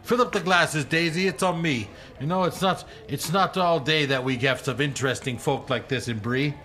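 hearty, fast-talking host; jovial hunter voice. Acted. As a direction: play the generous woodsman. Harry orders drinks for friends.

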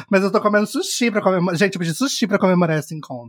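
talking through a mouthful of sushi; chewing while talking, mouth full. Real, not acted. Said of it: "se eu falar de boca cheia".

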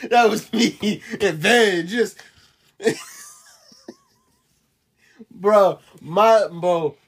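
slow, laugh-filled telling; cracking up mid-sentence. Real, not acted. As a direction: talk through the laughter.

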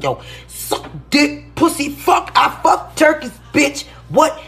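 lightly put-on high voice, spitting out curses; imitated ranting man. Mimicking the man talking dirty about turkeys, mock ranting. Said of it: "up in there talking about".

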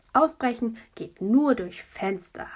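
slow grave proclamation; solemn declaration. Acted. Boy explaining escapes, mock grave. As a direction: pronounce it like a prison rule. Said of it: "hat Vincent gesagt".

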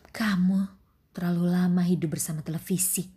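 curt, sharp stepmother retort. Acted. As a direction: snap it back curtly. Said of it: "katanya ketus".

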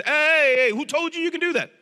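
put-on hey, who told you, mom calling out the kid; mom challenging.

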